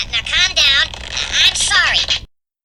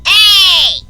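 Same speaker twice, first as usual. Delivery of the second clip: loud, higher barked hey; angry shout; 5 semitones higher, 7 dB louder than usual. Acted. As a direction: yell it at a passing car.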